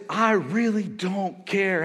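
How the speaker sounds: drawn-out, mock don't-care line; don't-care attitude. Preacher quoting the congregation's attitude, don't-care. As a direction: stretch out the indifference.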